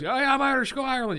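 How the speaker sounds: loud, high mocking cheer; high-pitched sarcastic hurrah; mock boasting. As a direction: crow it like a hyped-up fake Irishman. Mocking fake Irish-Americans boasting.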